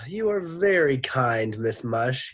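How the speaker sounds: sigh, then high, loud put-on courtesy; sighing politeness. A narrator's reading. Teacher fobs off the lunch lady, sighing high voice. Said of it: "Mister Gorf sighed".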